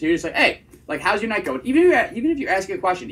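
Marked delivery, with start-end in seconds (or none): 0.3-1.6 "going" landed firmly downward, like a statement; hard period. Shown as a demonstration. Coach shows students a date opener, hard-period ending. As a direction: put a full stop after "how's your night going". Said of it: "ending your sentences with a hard period".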